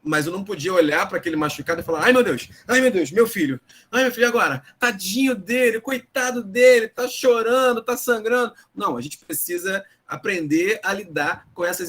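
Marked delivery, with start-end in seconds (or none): 2.0-8.5 high, loud hammed-up panic over a scraped chin; mock the overprotective parent wailing; higher, louder mock fretting, fussing over a hurt child; panicky parent.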